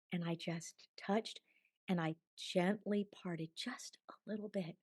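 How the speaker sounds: whispered, as if not to disturb anything; hushed. Retold or imitated. Recalling touching the curtain of her vision, whispered. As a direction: breathe it out almost silently. Describing parting the heavenly curtain.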